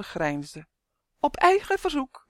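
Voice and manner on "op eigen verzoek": high, loud gleeful call; cheerful cry. A narrator's reading. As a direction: crow it out merrily. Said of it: "riep hij vrolijk". (vrolijk en hoog uitgeroepen)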